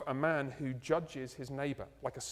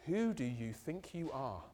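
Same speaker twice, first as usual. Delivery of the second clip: a challenging, slightly slower accusing question; 2 semitones lower, 4 dB quieter, slower than usual. Shown as a demonstration. Preacher voicing the accusing reading of James, challenging. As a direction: throw "Who do you think you are?" back as a put-down. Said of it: "you could take it in the kind of".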